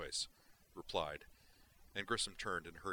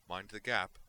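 cautioning; 2 semitones higher, 5 dB louder than usual. Acted. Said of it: "she cautioned".

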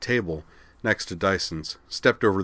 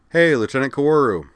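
raised, higher call across the room; 7 semitones higher, 7 dB louder than usual. Acted. Dyson hails Kozue across the officers' mess, calling out. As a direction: hail her from across the mess.

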